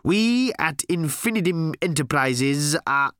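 slow, high, emphatic announcement; corporate proclamation. A narrator's reading. New boss launches into company speech, grandly emphatic.

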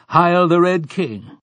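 high, slow, shouted hail; frenzied cry. A narrator's reading. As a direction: cry it out like a mad crowd. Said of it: "mad laughter and a cry of".

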